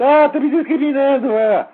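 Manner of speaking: high-pitched, exaggerated cry of victimhood; mock whining. Host aping people complaining of discrimination, in a high mock whine. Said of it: "o pessoal gay fica chorando".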